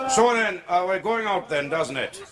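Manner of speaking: put-on lilting comic Welsh accent; drunk Welshman. Drunk Welshman chats to a Scot, lilting Welsh accent. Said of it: "talking to a Welshman pissed".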